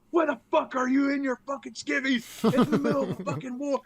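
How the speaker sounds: high, loud incredulous chewing out; mock scolding. XO chewing out Marines in skivvies, loud incredulous scolding. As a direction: berate them, half laughing at it.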